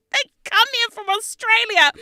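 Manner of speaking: high, squeaky burst through laughter; laughing. Real, not acted. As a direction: barely get it out while cracking up. Laughing through the family story.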